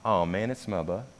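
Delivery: "bad" blurred to "buh" in "smuba"; "my bad" slurred into "smuba". Shown as a demonstration. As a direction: run "it's my bad" together as "smuba". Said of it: "he thought people were saying".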